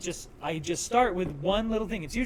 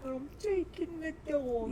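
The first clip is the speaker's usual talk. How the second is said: Jennifer Coolidge; 8 semitones higher, 7 dB quieter, slower than usual. Retold or imitated. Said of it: "Jennifer Coolidge is like".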